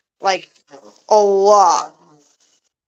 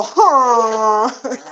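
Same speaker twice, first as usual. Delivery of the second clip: imitated honk; 3 semitones higher than usual. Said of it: "When they go".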